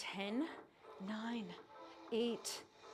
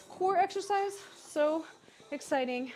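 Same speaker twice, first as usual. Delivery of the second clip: excited; 6 semitones higher, 4 dB louder than usual. Acted. Mock enthusiasm about hard exercise.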